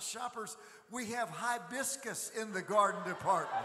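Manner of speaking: high-pitched announcer call, laughing at the end; laughing store-loudspeaker imitation; mock store announcement. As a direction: replay the misheard announcement, cracking up. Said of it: "I said".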